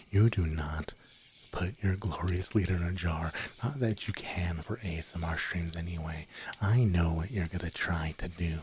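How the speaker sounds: mock-stern whispered warning; ASMR whisper. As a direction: whisper it like a pompous little leader. Whispered ASMR stream chatter.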